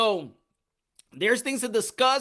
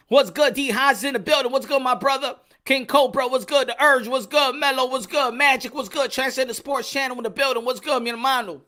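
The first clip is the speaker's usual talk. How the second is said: hyped shout-outs; 3 semitones higher, 4 dB louder than usual. Real, not acted. Greeting live chat viewers.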